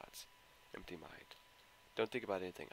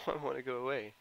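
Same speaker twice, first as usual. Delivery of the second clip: unhinged laugh; 5 semitones higher, 8 dB louder than usual. Acted. Unhinged after self-harm.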